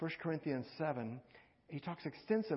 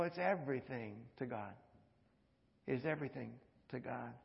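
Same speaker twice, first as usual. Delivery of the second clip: hushed; 4 semitones lower, 6 dB quieter than usual. Acted. Repeated softer for weight.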